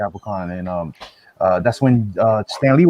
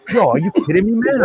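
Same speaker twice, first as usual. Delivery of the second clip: retold telling off; 8 semitones higher than usual. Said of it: "I had to tell that guy off".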